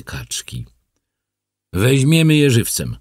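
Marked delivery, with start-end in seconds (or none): 1.7-3.0 firm, higher-pitched resolve; decided. A narrator's reading. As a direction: declare the decision firmly, pitched high. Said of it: "postanowił".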